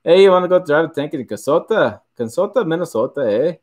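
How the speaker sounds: hammed-up U.P. Michigan accent; Upper Peninsula accent. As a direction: play a Yooper with a tacked-on "eh?". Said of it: "U P accent".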